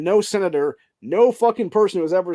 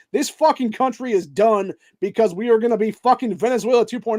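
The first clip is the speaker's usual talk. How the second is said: higher-pitched escalating rant; heated rant; 5 semitones higher than usual. Real, not acted. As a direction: keep pushing the outrage higher. Escalating rant about communism.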